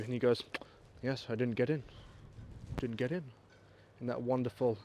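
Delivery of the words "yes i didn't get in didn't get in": put-on lightly posh English accent; understated posh English delivery; Christopher Nolan. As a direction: quote him in a mild posh English voice. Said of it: "posh accent as mine".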